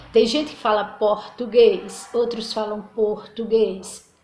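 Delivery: "português" said two ways, slowly and deliberately; slow pronunciation contrast. Shown as a demonstration. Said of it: "num som bem mais fraco".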